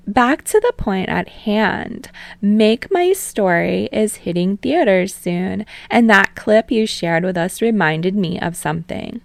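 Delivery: put-on playful TV host calming the boys, then prying; teasing talk show host. Host Utsushimi steering the interview.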